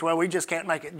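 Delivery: low, soft defeated mimicry; defeated doubter. Preacher imitating those who confess lack, low defeated mutter. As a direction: imitate someone who has given up. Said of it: "that talks like this".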